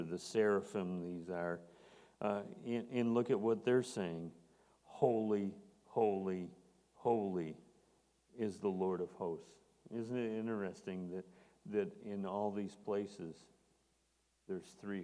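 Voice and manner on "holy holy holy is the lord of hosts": proclaiming loudly. Acted. Preacher proclaims the seraphim's cry.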